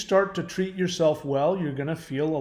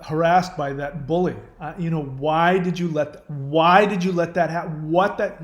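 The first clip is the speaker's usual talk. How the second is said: mildly incredulous scolding, louder on the questions; acted exasperated reproach; mock reproach; 5 dB louder than usual. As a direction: pretend to blame the child with pointed questions. Acting out blaming a hurt child.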